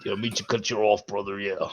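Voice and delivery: low, deep mock-heel voice. Echoing the co-host's wrestling heel line, deep voice. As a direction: drop it into a deep, raspy register. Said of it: "my deep voice gets in the rasp".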